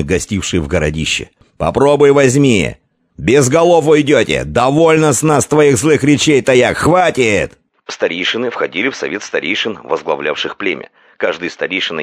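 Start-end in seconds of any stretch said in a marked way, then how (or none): 1.6-7.6 high, loud, angry shouts; elders shouting. A narrator's reading. Elders to the envoy, loud angry shouting. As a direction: roar them down together. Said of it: "загласили вожди и старейшины".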